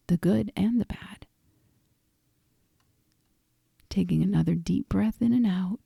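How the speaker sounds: unhurried guiding voice with long pauses; guided meditation. Acted. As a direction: lead listeners through reflection, pausing after each phrase. Leads a reflective guided meditation.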